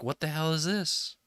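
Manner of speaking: a touch of mock outrage at being made to work; mock yelling body. The body objects to a first exercise, mock yelling. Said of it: "it yells at you".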